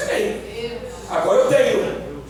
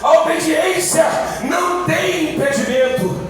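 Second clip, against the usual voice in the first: raised pitch, driving chant-like cadence; full-force preaching; 6 semitones higher than usual. Acted. Preacher tells congregation obedience has no barriers, full-force preaching. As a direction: preach it in rising, repeated declarations.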